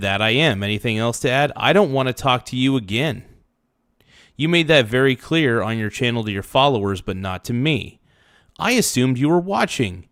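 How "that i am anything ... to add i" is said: ordinary delivery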